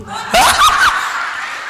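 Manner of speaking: loud high laugh; burst of laughter. Real, not acted. Preacher laughs aloud at the woman's plea, high. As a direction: let a big laugh out.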